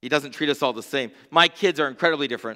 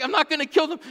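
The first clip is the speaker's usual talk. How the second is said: imitating dad; 11 semitones higher, faster than usual. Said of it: "I'm like".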